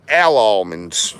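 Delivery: Al almonds said slowly, "al" sounded clearly, then "awl-monds". Shown as a demonstration. Humoring viewers on pronunciation, slow Al almonds. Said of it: "I'll say it however you want me to say it".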